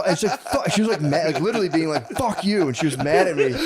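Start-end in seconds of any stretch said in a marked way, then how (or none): 0.4-0.7 mock curse. Wife's curse. 2.1-2.7 mock angry wife. Wife mad at him.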